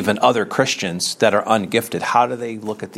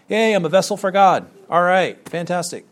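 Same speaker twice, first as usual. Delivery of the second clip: mock delight; 5 semitones higher than usual. Acts out self-satisfied tongues speaker.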